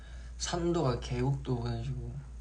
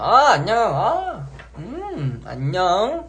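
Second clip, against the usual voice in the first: 높고 크게 애교 섞인 목소리; 팬에게 애교 부리듯 높게; cute aegyo voice; 8 semitones higher, 8 dB louder, much slower than usual. Shown as a demonstration. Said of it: "이렇게". (애교 섞인 높은 목소리)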